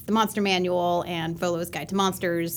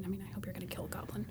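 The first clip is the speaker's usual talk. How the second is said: hushed conspiratorial whisper, quick; 17 dB quieter, faster than usual. Real, not acted. DM whispering a joke to co-hosts, conspiratorial whisper. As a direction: drop to a fast breathy aside. Joking aside about killing goblins.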